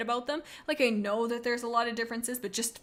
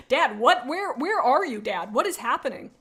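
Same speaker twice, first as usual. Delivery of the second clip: bewildered yelling; 3 semitones higher, 8 dB louder than usual. Retold or imitated. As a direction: demand an explanation in disbelief.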